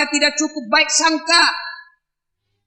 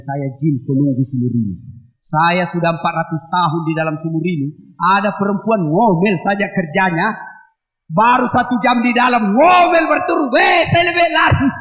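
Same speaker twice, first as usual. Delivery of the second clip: jinn voice; 4 semitones lower than usual. Acted.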